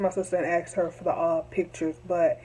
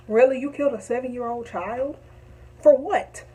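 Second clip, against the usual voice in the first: raised, exasperated questions; disbelieving outrage; 4 semitones higher than usual. Real, not acted. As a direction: demand an answer, stunned and angry. Outraged at the child's killer.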